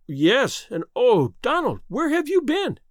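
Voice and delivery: rising high, breathless; eager question. A narrator's reading. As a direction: ask him urgently. Sister eagerly questions brother.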